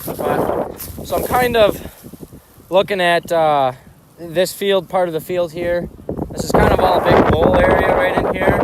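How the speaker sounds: gusts over the mic; talking into the wind outdoors; wind in the face. Real, not acted. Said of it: "It's a little windy today".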